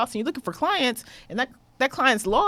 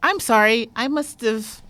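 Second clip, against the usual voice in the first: polite phone voice; 5 dB louder, slower than usual. Retold or imitated. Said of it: "and I said".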